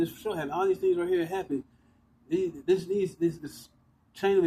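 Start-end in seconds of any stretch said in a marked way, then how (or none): 0.0-0.5 "this for sure happened" said much softer, trailing away; fading out. Real, not acted. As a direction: let the repeat of "this for sure happened" sink to a near-murmur. Repeating it, trailing off.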